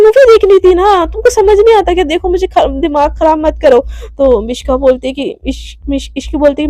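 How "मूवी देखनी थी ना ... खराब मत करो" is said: annoyed snap. Acted. Mishka snapping back, annoyed.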